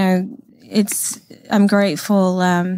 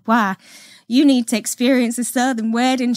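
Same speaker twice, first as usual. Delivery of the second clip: attempted Southern lady accent; lightly put-on Southern accent; best Southern accent; 3 semitones higher than usual. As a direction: do your best Southern belle impression. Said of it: "that's my best southern accent".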